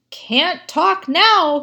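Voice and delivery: high, loud, slow cry; Sally crying out she's too busy; cried out. Acted. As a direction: call it out high and urgent. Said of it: "cried Sally".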